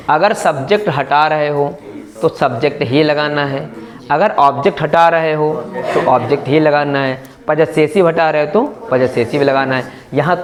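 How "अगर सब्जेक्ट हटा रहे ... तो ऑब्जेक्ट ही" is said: slow rule dictation. Shown as a demonstration. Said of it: "फिर बता रहा हूँ".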